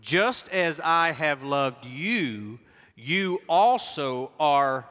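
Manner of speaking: slow, deliberate reading; read aloud together. Shown as a demonstration. Pastor leading the congregation in slow reading. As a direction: pace it word by word. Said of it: "Read it with me if you would".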